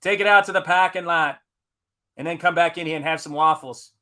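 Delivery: loud, high hey-hey break-it-up call; mock bouncer shout. Lounge host tells brawling guests to go outside, loud and high. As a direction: yell like a bouncer breaking up a fight. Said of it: "Although we do go".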